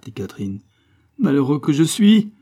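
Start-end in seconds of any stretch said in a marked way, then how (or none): 1.2-2.3 loud, raised cry of self-reproach; enraged cry. A narrator's reading. Farmer cursing himself for the loss, enraged cry. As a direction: rage at yourself. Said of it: "s'écria Billaud avec rage".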